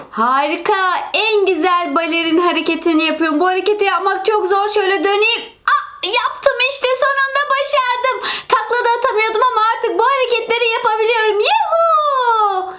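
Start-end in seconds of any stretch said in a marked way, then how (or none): 5.7-12.7 high, delighted whoop of success; triumphant cheer. Acted. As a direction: celebrate the move you finally nailed. Triumphant after hard ballet move. (zor hareketi başaran balerin, sevinçle bağırarak)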